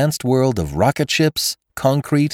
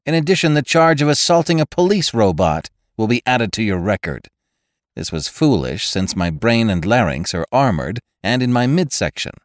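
hurt robot cop. Acted. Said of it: "there was a hurt tone in his voice".

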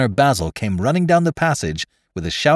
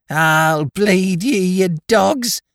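put-on much higher, slow drunken shrill; piercing sharp voice; 10 semitones higher, 4 dB louder, much slower than usual. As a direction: shriek it slurred like a drunk boy. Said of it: "uttered a wild laugh and more curses".

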